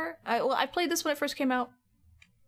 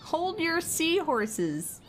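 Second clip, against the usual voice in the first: slow, higher, drawn-out exclamation; hammed-up exclamation; 7 semitones higher, much slower than usual. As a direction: stretch out the catchphrase. Voicing Kid's entrance.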